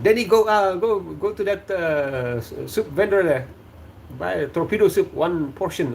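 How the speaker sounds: lightly voiced dad ordering his son; dad's voice. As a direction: send the kid on an errand, lightly voiced. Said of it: "My dad said".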